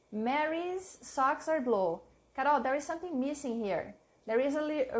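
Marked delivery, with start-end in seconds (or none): 0.1-2.0 slow dictation. Shown as a demonstration. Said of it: "an apostrophe and a period".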